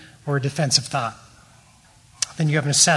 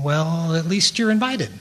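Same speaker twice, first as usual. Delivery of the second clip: sarcastic; 2 semitones higher than usual. Retold or imitated. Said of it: "I reacted sarcastically by saying".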